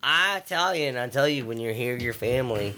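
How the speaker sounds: punchy mock Italian accent on "Italian"; Italian accent, slogan-style; put-on Italian accent. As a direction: ham up an Italian accent, leading with a big "Italian". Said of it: "Tell us that accent".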